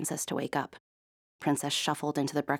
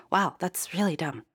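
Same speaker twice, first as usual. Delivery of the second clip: laughing; 2 semitones higher than usual. Acted. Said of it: "laughed Princess".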